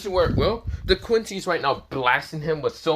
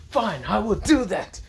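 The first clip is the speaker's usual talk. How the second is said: high-pitched doll voice; pitched-up little doll agreeing; creature voice; 7 semitones higher than usual. Acted. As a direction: answer in a high put-on creature voice. Cackling doll creature agrees to help.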